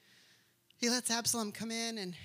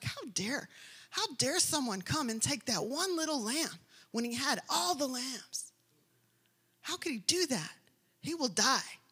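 mock outrage from the king on hearing of the stolen lamb; mad outrage; 2 semitones higher than usual. David furious at the rich man's theft, rising indignant voice. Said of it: "And David's mad".

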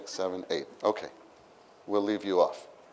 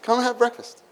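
gentle invitation; 9 semitones higher than usual. Retold or imitated. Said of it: "what does he say".

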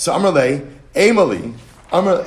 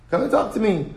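"Come and talk to me" pitched higher, pleading on talk; pleading appeal; 7 semitones higher than usual. Shown as a demonstration. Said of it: "repeated appeal".

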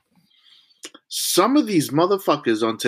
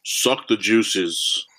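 very slow relished line; drawn-out, lingering gross voice; 3 semitones lower, much slower than usual. Pretend. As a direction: savor it grossly.

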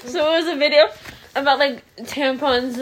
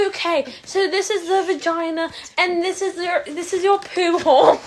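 put-on British accent; 4 semitones higher than usual. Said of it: "she's like".

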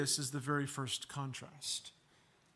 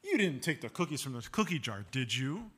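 leading question; 3 semitones lower, faster than usual. Shown as a demonstration. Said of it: "we might say this".

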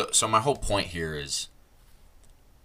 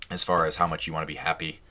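voice crack. Real, not acted. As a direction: voice cracks on happy. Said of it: "voice crack town".

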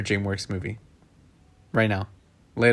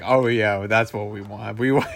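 lower, imitating sarcastic agreement; mock sarcastic; 4 semitones lower than usual. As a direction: mimic a friend's half-hearted agreement. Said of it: "Why'd you say it sarcastically?".

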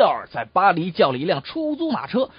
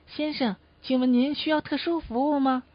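hotel receptionist; 3 semitones higher, 4 dB quieter than usual. Acted. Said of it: "前台的小姐就问他".

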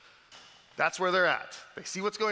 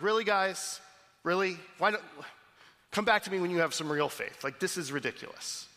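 exasperated, annoyed Jesus; mock exasperated teacher; irritated rebuke; 3 semitones higher than usual. Shown as a demonstration. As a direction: scold them with impatience. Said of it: "we hear this as a rebuke".

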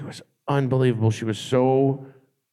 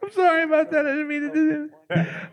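imitating Beck. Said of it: "he just went".

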